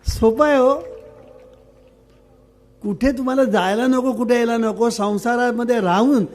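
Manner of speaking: preaching with rising excitement; rousing exhortation. Acted. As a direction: lift the crowd with bright enthusiasm. Preacher rouses the audience.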